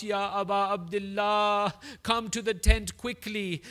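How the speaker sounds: the women call the Imam back to the tent; urgent call. Acted. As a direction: summon him to the tent in alarm.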